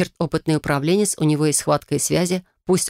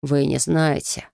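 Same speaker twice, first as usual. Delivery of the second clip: slow, grim reply; sullen; slower than usual. Acted. Holtz answering Amalia, slow and sullen. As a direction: say it darkly, unwilling. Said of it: "хмуро произнёс Хольц".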